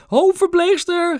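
high-pitched, drawn-out yell for help; grandma screeching for the head nurse; grandma's scream. A narrator's reading. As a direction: shriek it out, stretching the word. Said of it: "gilde oma".

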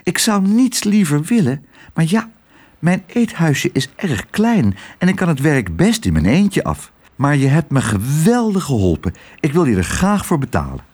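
a hint of a fussy landlady; friendly landlady voice. Twiddle's voice in the story.

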